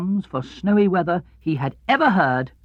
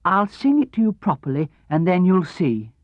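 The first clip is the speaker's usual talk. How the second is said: lightly voiced kindly bear, higher; Pooh voice; 4 semitones higher than usual. Pooh promises to sing properly, mild bear voice. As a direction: offer it like a simple friendly bear. Pooh's voice.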